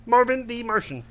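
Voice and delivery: high cartoon alien voice; Marvin the Martian. Shown as a demonstration. Showing friend the next morph, high alien voice. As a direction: announce it as a little cartoon alien. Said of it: "And then you can go into".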